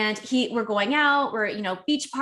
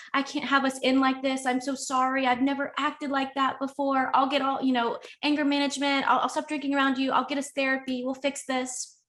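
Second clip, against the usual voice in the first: mildly higher voice imitating his begging, no real sobs; retold tearful pleading; 4 semitones higher than usual. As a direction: rattle off his pleading promises. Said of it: "He's crying his eyes out".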